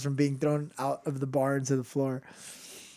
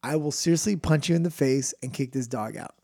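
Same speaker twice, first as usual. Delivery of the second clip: low, restrained bartender's threat; threatening bartender; 3 semitones lower than usual. Acted. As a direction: warn him off in a lowered voice. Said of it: "And then he goes".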